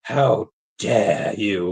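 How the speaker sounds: slow, drawn-out mock outrage; a lightly voiced Greta Thunberg glare; hint of Greta's how dare you. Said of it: "my best Greta Thunberg impression".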